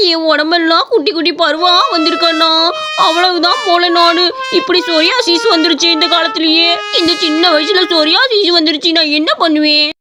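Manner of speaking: mildly hammed-up weepy voice; tearful complaint. Boy telling big brother about his rash, mock-tearful. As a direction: whine tearfully, pitch swooping up on some words. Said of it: "இதை பார்த்துக்கிட்டு அழுதுகிட்டு இருப்பியா".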